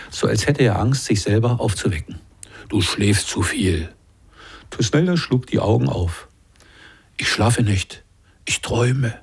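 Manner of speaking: measured, expressive reading of a prison tale; calm literary narration with lightly voiced characters; story narration. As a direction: read it like an author at a reading. Author reads his story aloud.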